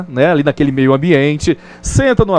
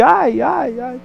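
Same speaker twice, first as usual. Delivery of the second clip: higher, fading echo of the yelp; 6 semitones higher, 3 dB quieter, much slower than usual. Retold or imitated. The mountain echoes the boy's cry back, fading. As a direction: let it ring back like a distant echo. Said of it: "De longe ele ouve".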